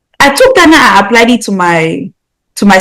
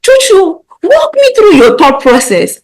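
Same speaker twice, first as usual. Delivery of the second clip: higher, slow, mock-patient big sister; mock calm request; 11 semitones higher, slower than usual. Big sister to Chuchu, mock-patient and slow. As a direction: play the patient sister, slowly. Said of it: "I'll tell Chuchu".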